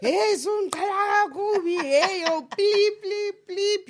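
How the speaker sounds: high, loud mock rant, slow and ranting; wild angry rant. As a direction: play the meme guy wilding out, hammed-up fury. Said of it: "when he was wilding out".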